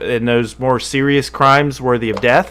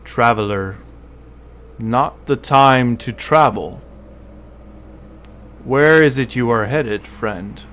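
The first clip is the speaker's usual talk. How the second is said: tiefling character voice. Acted. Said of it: "let me get the voice down".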